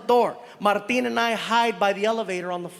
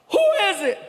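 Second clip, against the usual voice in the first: 1 retold yell; 8 semitones higher, 3 dB louder, faster than usual. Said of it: "He yells".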